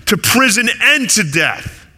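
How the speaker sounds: acting out a proud promise of loyalty; boastful vow. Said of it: "Remember Peter boasted".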